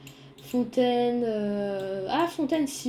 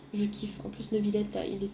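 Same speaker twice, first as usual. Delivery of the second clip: whispering; 3 semitones lower, 6 dB quieter than usual. Real, not acted. Admiring the view.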